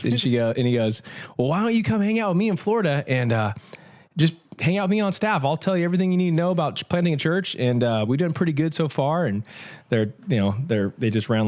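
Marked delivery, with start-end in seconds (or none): 1.4-7.5 higher Southern Cajun pastor making an offer; Cajun accent. Retold or imitated. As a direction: lean into the Cajun, pitched up. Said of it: "when you were doing his voice, you had to do the accent".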